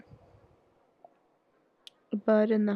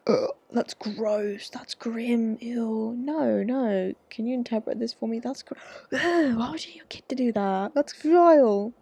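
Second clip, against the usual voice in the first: disgusted; slower than usual. Real, not acted. Disgust at message.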